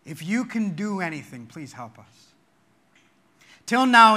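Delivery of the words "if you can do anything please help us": quiet plea. Shown as a demonstration. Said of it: "Did you take in his question".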